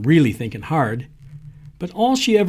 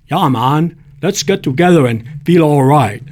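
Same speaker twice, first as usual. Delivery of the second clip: put-on light Jamaican accent, laid-back; a hint of Jamaican lilt, friendly; 6 dB louder than usual. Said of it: "in my best Jamaican accent".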